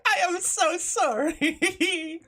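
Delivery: slow, stretched mock apology; drawn-out apology. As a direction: drag the words out.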